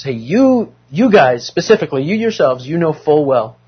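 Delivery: jab every "you" at the listeners; emphatic Paul. Retold or imitated. Teacher voicing Paul pressing the Thessalonians, emphatic. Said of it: "it's even more emphatic".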